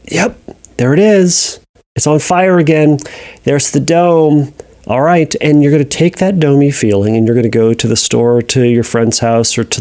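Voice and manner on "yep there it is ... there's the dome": calm acknowledgement. Shown as a demonstration. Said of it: "you go".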